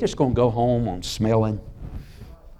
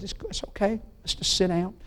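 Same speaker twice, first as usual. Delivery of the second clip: soft and higher, calming his wife in church; hushed reassurance; 9 semitones higher, 6 dB quieter than usual. Retold or imitated. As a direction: hush her gently. Husband hushing wife in church.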